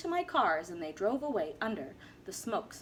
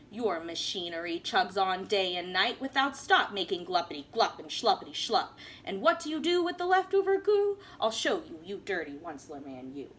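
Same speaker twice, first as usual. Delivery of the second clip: Lorax snapping; 4 semitones lower than usual. Acted. Lorax with his dander up, mildly scolding the Once-ler. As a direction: scold him with mild heat. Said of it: "snapped the Lorax, his dander was up".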